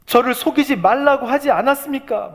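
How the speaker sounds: high-pitched, anguished protest, acted out; acted distraught complaint, halting then pouring out; mock wailing plea. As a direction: plead upward as if close to sobbing. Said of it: "막 오열을 하잖아요".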